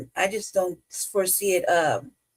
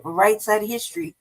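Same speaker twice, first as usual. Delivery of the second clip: sarcastic quote of the slogan; scornful parroting of a slogan; mocking slogan; 2 semitones higher than usual. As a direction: toss off the catchphrase mockingly. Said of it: "the guilt trip".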